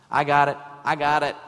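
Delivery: loud stubborn mock insistence; mock self-reliance. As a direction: brush off help, insistent. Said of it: "navigate the way yourself".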